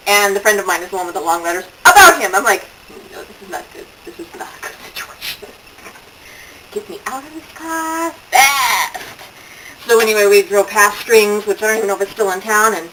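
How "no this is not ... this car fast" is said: mock panic. Own panicked inner voice.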